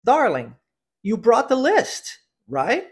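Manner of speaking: slow, clearly modelled phrase for repeating; teacher's careful repeat-after-me delivery; pronunciation drill model. Shown as a demonstration. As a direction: stretch "you brought the list", then a short rising "right?". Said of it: "Vamos à pronúncia da frase".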